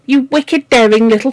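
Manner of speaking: put-on high, indignant outburst at the children; crying out. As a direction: cry it out in outrage. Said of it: "she cried".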